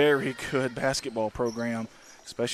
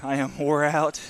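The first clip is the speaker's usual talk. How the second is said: out of breath; winded, panting between words; heavy breathing; slower than usual. Real, not acted. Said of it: "If you hear me breathing hard".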